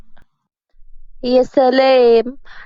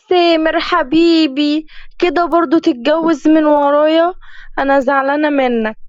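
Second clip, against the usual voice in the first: put-on sulky girlfriend; 5 semitones higher than usual. Fiancée scolding Samer for marrying, higher sulky whine. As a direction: pout like a spoiled girlfriend.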